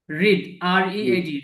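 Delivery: রিড then the letters spelled slowly one by one; slow spelling out. Shown as a demonstration. Teacher slowly spells read for learners, letter by letter. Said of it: "খেয়াল করবেন সবাই উচ্চারণটা".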